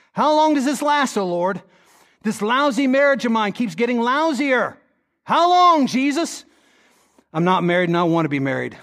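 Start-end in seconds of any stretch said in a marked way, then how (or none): 0.1-1.6 high, pleading how long; pleading cry. Pretend. Preacher voicing a sufferer's cry to God, pleading. 5.2-6.4 anguished cry. Pretend. Preacher voicing a spouse in a lousy marriage, crying out.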